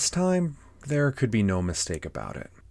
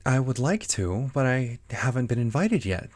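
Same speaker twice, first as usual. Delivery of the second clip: put-on higher-pitched girl character reply; Alice; 5 semitones higher, 4 dB louder than usual. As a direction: answer as a polite storybook girl, pitched up. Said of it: "said Alice".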